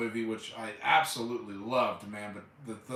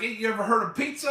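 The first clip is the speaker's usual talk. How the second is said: imitating Chop Top; 8 semitones higher, 3 dB louder, faster than usual. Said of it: "He's like".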